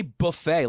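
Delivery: buffet said the supposedly French way, "boo-FAY"; boo-FAY pronunciation. Retold or imitated. Host challenging co-host's French-sounding word, buffet as "boo-FAY". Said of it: "like a fucking French".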